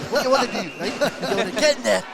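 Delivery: bad Geordie accent pep talk. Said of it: "That's the worst Geordie accent I've ever heard".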